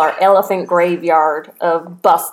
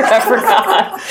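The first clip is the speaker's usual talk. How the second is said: laughing; 2 semitones higher, slower than usual. Real, not acted. Laughing at own forgetting.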